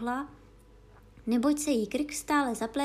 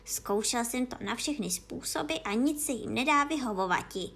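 ordinary delivery

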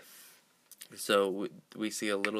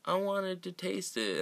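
higher-pitched imitation of a boy; lightly voiced child; 10 semitones higher than usual. Eight-year-old explaining himself after being yelled at, higher mock kid voice. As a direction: mimic a kid's innocent excuse, pitched up. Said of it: "he just goes".

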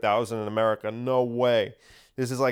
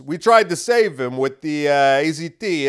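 louder, mocking official brush-off; a lightly voiced dismissive doctor, louder; loud mock excuse in a borrowed voice; mock Fauci voice; 5 dB louder than usual. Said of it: "doing that voice for Fauci".

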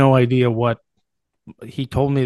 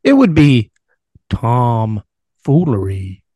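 dramatic reveal; 7 dB louder, slower than usual. Pretend. Drumroll reveal of a joke name.

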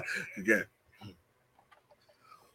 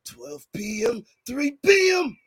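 impersonating friend's promo. Retold or imitated. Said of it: "how you do my impersonation".

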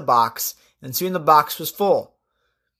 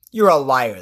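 a touch louder, mildly hissed "liar"; hissed accusation; 4 semitones lower, 4 dB louder than usual. Acted. Offended snake calls Patrick a liar, in a mild hiss. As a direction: spit out the insult, lightly hissed. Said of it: "the snake hissed".

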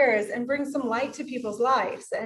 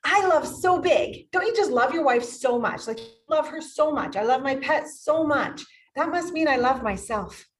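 gushing; 3 semitones higher than usual. Retold or imitated. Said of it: "I'm like".

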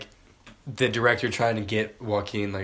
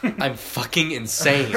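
mock insistence; 4 semitones higher, 4 dB louder, much slower than usual. Acted insistence he is crazy.

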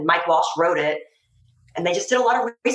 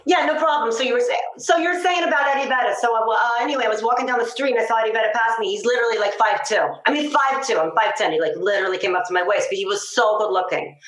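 Long Island accent; 4 semitones higher, faster than usual. Shown as a demonstration. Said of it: "So that's, like, a Long Island accent".

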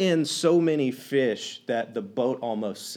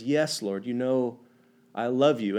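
heartbroken; 5 semitones lower, 3 dB quieter than usual. Retold or imitated. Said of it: "Peter was heartbroken".

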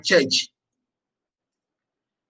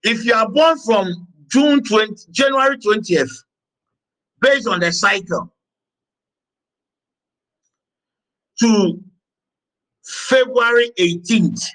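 measured dictation. Acted. Dictates dates and elements to the class.

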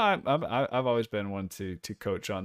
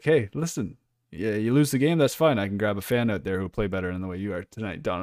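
tough coach. Pretend. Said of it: "I'd be like".

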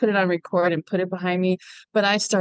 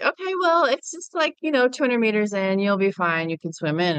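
breezy friends; 3 semitones higher than usual. Retold or imitated. Friend tells the nervous newcomer she'll be fine, in a lightly mocked breezy voice. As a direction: toss it off like it's nothing, mock casual. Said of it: "my friend and her boyfriend were like".

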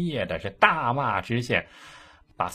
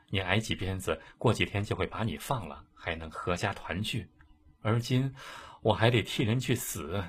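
put-on a condemned young wife confiding quietly; quiet sorrow; 4 dB quieter than usual. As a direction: let the grief stay hushed and heavy. Li quietly tells her grief.

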